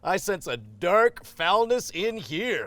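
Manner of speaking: slow booming mystic voice; guru voice. Acted. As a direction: proclaim it slowly like a seer. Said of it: "the guru character".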